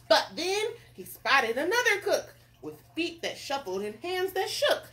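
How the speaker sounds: lively read-aloud narrator; story narration. A narrator's reading. Narrator introduces another nervous cook, story narration. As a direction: tell it brightly to listeners.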